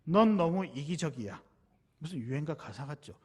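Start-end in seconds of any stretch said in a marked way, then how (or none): 0.0-1.4 mild mock yell with a loud first word; retold shout. Friend turning on the speaker after a squabble, retold shouting. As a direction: lash out, hitting the first word hard. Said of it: "갑자기 저한테 소리를 지르면서".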